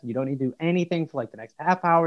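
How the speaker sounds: soft, soothing calming voice. Shown as a demonstration. Son demonstrates to mum how to calm someone, softly. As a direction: soothe a panicking person softly. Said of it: "You just go".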